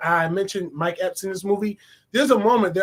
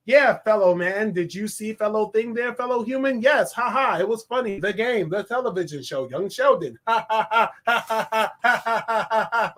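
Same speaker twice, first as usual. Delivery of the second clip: stiff, mechanical mock chatter with fake laughter; unnatural robotic small talk. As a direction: play a robot pretending to be human. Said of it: "they're just unnatural in this".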